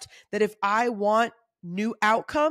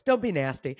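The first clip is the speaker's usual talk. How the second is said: mom voice; 5 semitones lower than usual. Shown as a demonstration. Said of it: "now I've got my mom voice".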